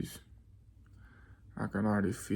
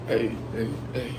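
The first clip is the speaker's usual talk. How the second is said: hype shout; 8 dB louder than usual. Real, not acted. Hyping himself in cold plunge.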